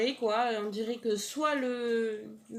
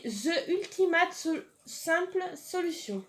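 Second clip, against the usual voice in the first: slow English brand name in a so-so accent, pitched up; self-conscious English accent; 5 semitones higher than usual. Real, not acted. Reading the brand slogan aloud, apologising for her English accent. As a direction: read the English slogan carefully in a French-tinged English accent. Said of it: "désolée pour mon accent bof bof".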